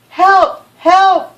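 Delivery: high, loud frantic cry of help; a scared boy begging the policeman on the phone, loud and high; panicked call for help. Acted.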